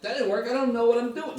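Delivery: high-pitched, flustered student impression; mock panicked student. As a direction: act out a student giving up in panic. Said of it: "But students would be like".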